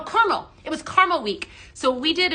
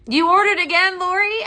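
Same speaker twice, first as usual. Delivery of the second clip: delighted laugh; 7 semitones higher, 6 dB louder than usual. Real, not acted. Viewer orders again.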